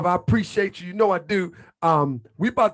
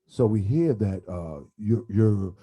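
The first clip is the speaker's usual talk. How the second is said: Grand Sheik radio voice; 10 semitones lower, slower than usual. Retold or imitated. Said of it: "He's like".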